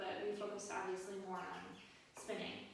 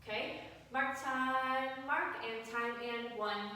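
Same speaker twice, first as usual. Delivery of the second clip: slow drawn-out drill call; parade commander; 2 semitones higher, slower than usual. Shown as a demonstration. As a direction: call the march like a drill leader. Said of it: "So the command is mark time".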